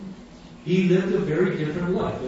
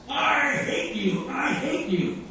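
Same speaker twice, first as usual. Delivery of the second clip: high, drawn-out yell at no real volume; mock yelling; 7 semitones higher, slower than usual. Heckler screaming in the preacher's face, retold as high mock yelling. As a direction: imitate a heckler's slow scream. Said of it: "starts yelling and screaming in his face".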